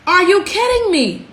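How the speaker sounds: dry, tired incredulity; exasperated. Real, not acted. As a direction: let the outrage settle into weary disbelief.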